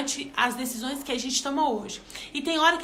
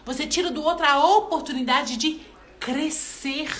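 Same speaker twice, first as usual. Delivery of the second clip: God's voice; 3 dB louder than usual. Retold or imitated. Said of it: "o Senhor falou comigo".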